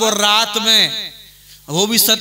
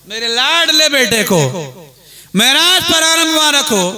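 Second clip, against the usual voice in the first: higher-pitched emphatic proclamation in two bursts; emphatic repeated blessing; 5 semitones higher than usual. Acted. Preacher repeating Ibrahim's words for the crowd, emphatic repeated blessing. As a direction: break it in two and lift the second half.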